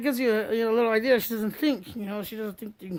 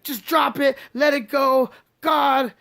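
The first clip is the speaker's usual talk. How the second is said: retold annoyance; 6 semitones higher, 9 dB louder, slower than usual. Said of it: "she starts getting mad".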